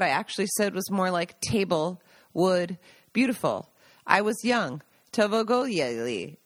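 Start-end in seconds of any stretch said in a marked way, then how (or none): 5.1-6.4 put-on Tovogoyeli said slowly, as a child garbling the word; childhood mispronunciation. Telling how she butchered the word as a child, slow and garbled. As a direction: sound out Tovogoyeli the way she got it wrong as a kid. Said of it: "Not being able to pronounce the damn word".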